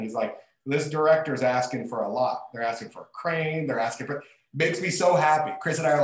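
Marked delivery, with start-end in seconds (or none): 0.7-4.2 put-on Brooklyn accent, grumbling about the budget; lightly imitated New York Brooklyn accent; thick Brooklyn accent. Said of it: "in his thick Brooklyn accent".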